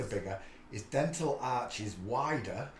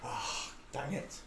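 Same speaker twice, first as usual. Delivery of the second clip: soft slow dang it under breath; quiet resigned; 8 dB quieter, slower than usual. Real, not acted. Annoyed again after cushion moves.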